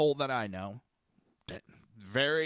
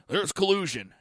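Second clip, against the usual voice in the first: mock accuser; 5 semitones higher than usual. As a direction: blurt it as a mocked accuser.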